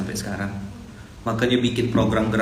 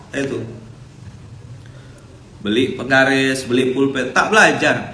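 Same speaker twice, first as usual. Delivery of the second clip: ordinary talk, nothing marked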